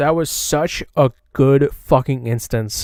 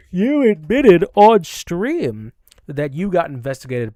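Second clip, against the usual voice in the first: higher-pitched, pointed accusation; emphatic accusation; 6 semitones higher, 4 dB louder than usual. Real, not acted. Streamer confronts rival over her own admission, accusing. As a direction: throw the admission back at them. Rebuking the denial after yawn.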